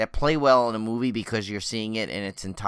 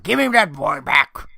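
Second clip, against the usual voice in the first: mock shout; 5 semitones higher, 8 dB louder, slower than usual. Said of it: "Do you think they're like".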